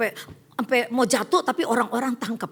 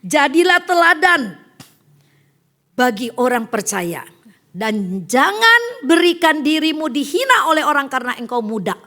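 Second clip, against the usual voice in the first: Paul's exhortation; 3 semitones higher, 8 dB louder than usual. Retold or imitated. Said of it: "Paulus menasehati begini".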